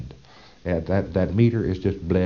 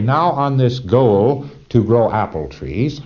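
slow demo question; 4 semitones higher, 4 dB louder, slower than usual. Shown as a demonstration. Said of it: "Learn to ask for what you want".

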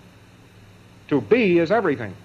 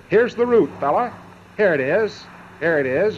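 mock glad offer; 3 semitones higher than usual. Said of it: "it says, gladly and happily".

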